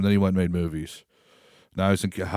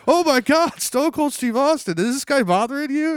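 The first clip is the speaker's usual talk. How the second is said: starstruck cop; 4 dB louder than usual. Retold or imitated.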